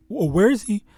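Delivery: mocking scoffer. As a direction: mimic a sneering doubter. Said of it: "this is a scoffing".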